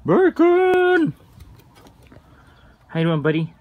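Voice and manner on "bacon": loud call to a pet. Real, not acted. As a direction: call his name across the yard. Calling the pet pig.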